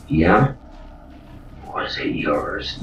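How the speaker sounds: usual speaking voice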